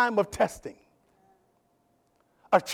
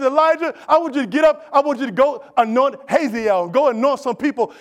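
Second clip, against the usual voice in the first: God's command; 3 semitones higher than usual. Retold or imitated. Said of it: "And God told him".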